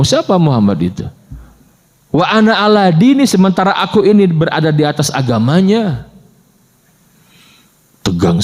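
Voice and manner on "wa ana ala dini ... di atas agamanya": reflexive oath. Retold or imitated. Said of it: "Ngomong begitu ya, refleks saja gitu".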